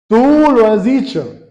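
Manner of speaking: slow, direct answer in one run. Acted. Preacher voices Jesus answering Judas, slow and direct. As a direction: say it straight through, slow and pointed. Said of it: "Ha sido más directo".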